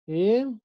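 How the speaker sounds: "Ejército" broken into e, JÉR, ci, to, with long pauses; split into syllables. Shown as a demonstration. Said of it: "Su sílaba tónica está en la antepenúltima".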